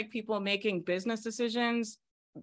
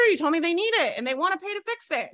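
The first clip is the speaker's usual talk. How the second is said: higher, louder and fast, breaking into real laughter; laughing; 9 semitones higher, 4 dB louder, faster than usual. Real, not acted. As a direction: laugh as you point out the contradiction. Catching the client's contradiction, laughing.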